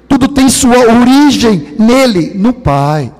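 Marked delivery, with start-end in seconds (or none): none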